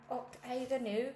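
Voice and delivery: put-on a light Scottish accent greeting; a hint of Scottish accent. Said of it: "that's all the Scottish I know".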